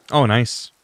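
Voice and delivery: normal talking voice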